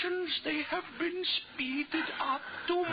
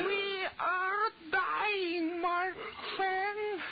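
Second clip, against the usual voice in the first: grim despair; 7 semitones higher, much slower than usual. Acted. Telling partner they are dying.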